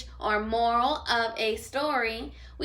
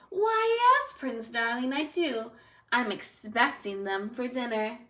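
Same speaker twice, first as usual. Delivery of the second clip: sweet witch voice. Acted. Witch answering the prince.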